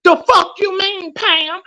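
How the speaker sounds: really heated, pitch rising. Real, not acted. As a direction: let the anger climb as you call her out. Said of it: "'Cause I'm very heated".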